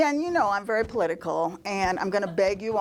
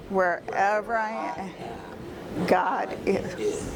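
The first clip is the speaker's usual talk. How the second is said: slow, measured prayer recitation; recited prayer; slower than usual. Retold or imitated. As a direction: recite it phrase by phrase, slowing toward the end.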